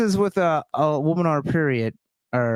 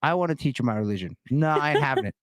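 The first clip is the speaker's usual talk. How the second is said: hammed-up preacher ranting at heathens; mock preacher. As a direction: rant like a scolding missionary. Voicing an angry preacher.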